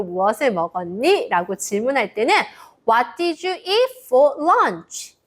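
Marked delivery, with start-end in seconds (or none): 2.9-5.2 slow model phrase. Shown as a demonstration. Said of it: "라고 물어볼 수 있어요".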